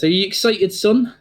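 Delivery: a proud father beaming over his son; jolly old dad. Acted. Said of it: "He goes".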